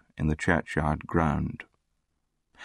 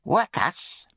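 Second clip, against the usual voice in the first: high, needling bully's voice; taunting charity boy; 12 semitones higher than usual. A narrator's reading. Charity boy aggravates the orphan at dinner, high taunting.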